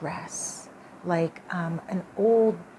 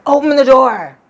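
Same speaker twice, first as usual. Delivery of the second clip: the dream ghost's voice, much higher and much louder; ghost woman's demand; 7 semitones higher, 15 dB louder than usual. Retold or imitated. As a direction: demand it through the door as the ghost. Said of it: "The same voice as the woman in my dream".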